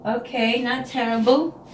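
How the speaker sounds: "not terrible" stretched slowly as she checks the result; drawn-out grudging verdict. Real, not acted. Weighing up her hair in the mirror, slow and grudging. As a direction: let "terrible" hang with a doubtful upward lilt. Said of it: "Not great, but not terrible".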